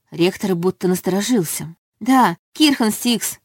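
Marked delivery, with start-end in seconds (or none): 2.0-3.4 slow, grudging, pressed out; through gritted teeth. A narrator's reading. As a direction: spit the name out slowly. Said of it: "процедила я".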